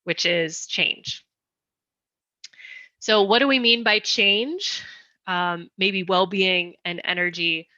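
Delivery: slowed down, pausing between phrases. Real, not acted. Presenter slowing for the translators, deliberately measured pace. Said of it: "try to speak more slowly".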